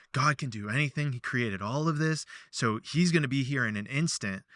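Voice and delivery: a lightly voiced, elated drunk; joyful exclamation. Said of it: "elates with joy".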